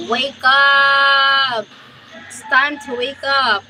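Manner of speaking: lightly voiced rooster calling wake up; playful rooster wake-up call; a hint of a rooster rousing sleepers. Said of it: "He said".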